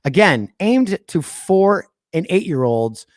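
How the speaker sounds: slow, halting phrasing with weighty pauses; William Shatner dramatic pause. Shown as a demonstration. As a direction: drag each word like a hammy captain's log. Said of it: "the William Shatner dramatic pause".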